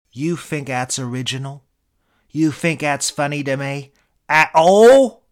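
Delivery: a Cambridge-tinged Brit snapping, then exploding; angry Eric Idle. Retold or imitated. British accent, a celebrity rounding on a room service guy in anger. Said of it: "your British accent, it's a pitch-perfect impression of Idle's".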